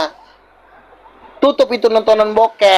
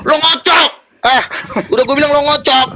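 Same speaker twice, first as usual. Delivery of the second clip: shouting; 5 semitones higher than usual. Real, not acted. Shouting insult in debate.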